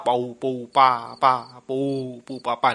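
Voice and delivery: drawn-out "pau, pa" sound effects; imitated popping noise. Storyteller mimicking a noise, spaced-out syllables. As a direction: sound out each pau and pa separately.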